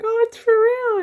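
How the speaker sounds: high, loud excited cry; amazed realization. Retold or imitated. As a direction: imitate a mother-in-law's delighted shock. Mother-in-law's amazed reaction, retold.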